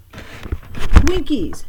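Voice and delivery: put-on high, loud triumphant child's shout; a little girl bragging at full volume. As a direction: yell it out proudly across the bus. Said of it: "she shouted".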